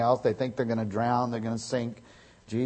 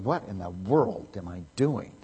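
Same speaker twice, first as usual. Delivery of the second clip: Peter's inner thought; 3 semitones lower than usual. Retold or imitated.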